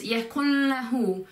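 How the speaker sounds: "يكن له" with the n melting into the l; blended N and L. Shown as a demonstration. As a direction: link "يكن له" through a held n-l blend. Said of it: "like a mixture of the, um, N sound and the L".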